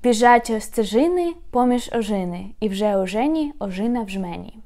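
Біжать стежини run together at a brisker pace. Shown as a demonstration. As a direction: pick up the pace, smooth and flowing. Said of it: "but a little bit faster".

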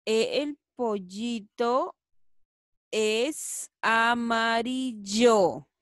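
slow, evenly paced sentence; slow reading again. Shown as a demonstration. Teacher rereads the sentence slowly at normal volume. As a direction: read it through slowly, in one go. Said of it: "A ver qué dirá, chicos".

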